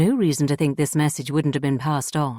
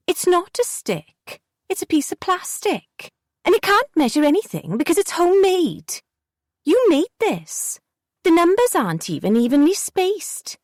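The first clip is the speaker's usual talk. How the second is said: put-on pitched-up contemptuous kid; scornful girl Jessie; 13 semitones higher than usual. A narrator's reading. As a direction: pick the homemade stick apart.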